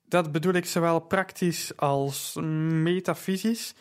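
licht lallend, een tikje hoger en luider; dubbele tong. Acted. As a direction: speel een dronken acteur die plechtig doet. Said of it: "Hij praatte met een dubbele tong". (zwaar aangeschoten maar deftig sprekend)

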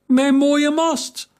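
high, slow wail of dismay; drawn-out cry over the broken mast; lament. A narrator's reading. Captain mourning his splintered mast, wailing slowly.

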